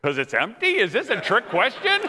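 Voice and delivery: rising, puzzled comic questions; mock bafflement. New husband answering his wife about parking, mock baffled.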